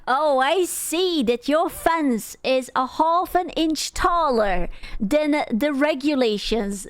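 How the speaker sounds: a hint of a nosy neighbor, slow; prim, slow rule-enforcer; HOA busybody voice. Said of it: "She sounded like one of those hoa people".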